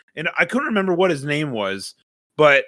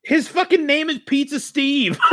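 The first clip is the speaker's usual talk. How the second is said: much higher, laughing out the name; laughing realization; 11 semitones higher than usual. Real, not acted. Laughing at the cartoon pizza character's name. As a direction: crack up as it clicks.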